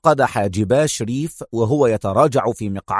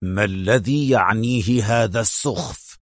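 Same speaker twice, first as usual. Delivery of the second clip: slow, lower, stern boss voice; menacing displeasure, slow; slow, low, angry stern boss; angry sternness; 4 semitones lower than usual. A narrator's reading. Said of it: "في صرامة غاضبة".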